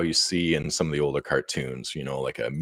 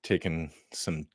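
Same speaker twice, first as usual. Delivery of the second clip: winded, catching breath; out of breath, speaking softly; after a workout; 6 dB quieter than usual. Real, not acted. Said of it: "I'm still catching my breath".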